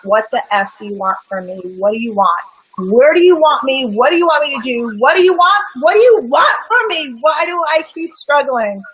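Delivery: screaming at God. Retold or imitated. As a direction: rage up at the sky until it breaks into a shout. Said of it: "I was screaming at God".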